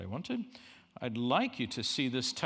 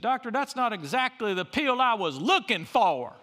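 disappointed patient; 11 semitones higher, 9 dB louder than usual. Retold or imitated. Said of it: "He said".

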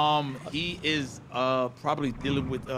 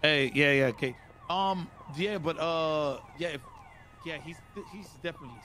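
customer service voice; 3 dB quieter than usual. Acted. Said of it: "It's my customer service voice".

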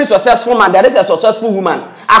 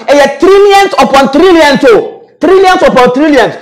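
trillions upon trillions said higher and drawn out; exaggerated outrage; 5 semitones higher than usual. Real, not acted. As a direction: exaggerate the size with a rising, stretched voice. Exaggerated disbelief at spending.

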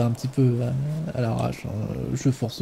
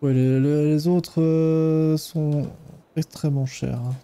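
put-on Ukrainian accent. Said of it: "mon superbe accent ukrainien".

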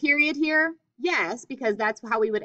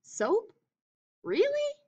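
mock surprise; 12 semitones higher, slower than usual. Real, not acted. Teacher reacting to the sentence.

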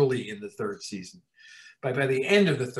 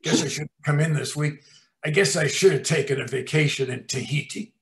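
sulky. Retold or imitated. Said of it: "This is exactly what he said".

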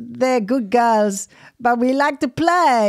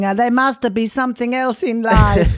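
put-on Italian accent. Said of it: "My husband is not Italian".

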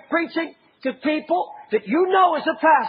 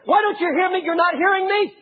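exasperated shout; 4 semitones higher than usual. Retold or imitated. Preacher voicing Jesus at unhearing believers, exasperated shout. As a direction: demand an answer in frustration.

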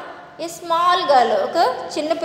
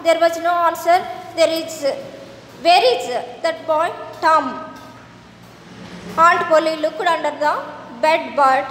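slow, deliberate story reading; measured classroom narration with pauses; textbook read-aloud; much slower than usual. A narrator's reading. Reads the English textbook story aloud.

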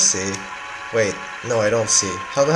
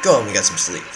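guard voice; 4 semitones lower, faster than usual. Acted. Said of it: "did not sound like the right voice for him".

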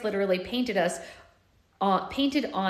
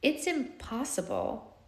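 blunt; 7 semitones higher, 5 dB quieter, slower than usual. A narrator's reading. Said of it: "Blue said bluntly".

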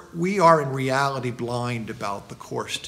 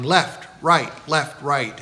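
retold shouting; 5 dB louder, slower than usual.

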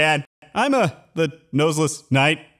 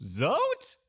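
calling from inside; 9 semitones higher, 7 dB quieter, slower than usual. Acted. Calling out while locked up.

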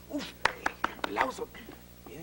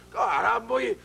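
loud, higher Argentine complaint, laughing through it; Argentine accent; 6 semitones higher, 4 dB louder than usual. Acted. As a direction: play the soaked Argentine swimmer, loud and high.

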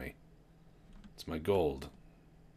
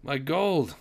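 mock panic; 7 semitones higher, 3 dB louder, slower than usual. Losing air and gold in game.

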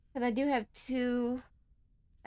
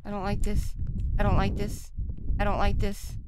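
louder, repeated nervous protest; nervous insistence; 6 dB louder than usual. Real, not acted. Player protesting to herself in a creepy game, nervous and louder.

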